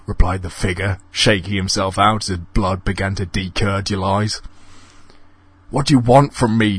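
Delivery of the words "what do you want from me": nervous. Acted. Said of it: "said Donald nervously".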